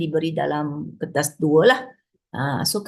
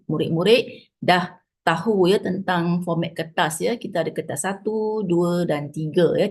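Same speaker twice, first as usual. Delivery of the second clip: switching between two languages. Real, not acted. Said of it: "I try to talk in two languages lah".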